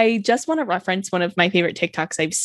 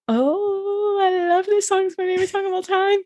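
mock fangirl gush; 11 semitones higher than usual. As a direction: squeal it like an overexcited fan. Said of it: "I was like".

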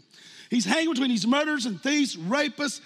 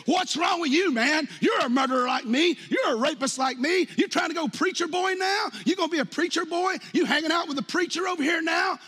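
jeering thief; 6 semitones higher than usual. Pretend. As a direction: sneer at him like a jeering criminal. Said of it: "he's probably saying".

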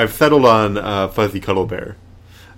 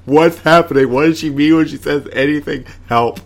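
higher, louder, flustered Boyle impression; panicked Boyle; 4 semitones higher, 5 dB louder than usual. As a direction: play him bewildered and pleading for help. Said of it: "He's like".

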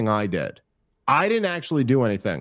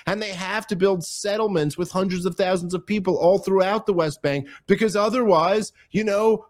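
higher, mock-earnest paraphrase of his case; mocking Bobby's argument; 6 semitones higher than usual. Host parodies a guest's argument to his cohost, higher and mock-earnest. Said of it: "he's literally saying to me there".

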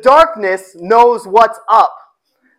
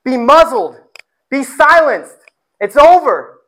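louder, rising stern rebuke; stern command; 3 semitones higher, 4 dB louder than usual. Acted. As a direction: silence the spirit with authority. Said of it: "Jesus silences the spirit".

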